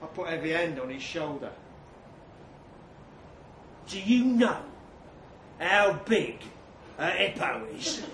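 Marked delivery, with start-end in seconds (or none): 3.9-8.0 loud, pointed challenge; confrontational question. Acted. Narrator challenging Specky over hippos, confrontational. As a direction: put the question to him pointedly.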